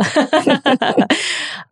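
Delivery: long, high-pitched giggling laugh. Real, not acted. Speaker amused by her own accent, high laughing. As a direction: dissolve into laughter after a silly impression.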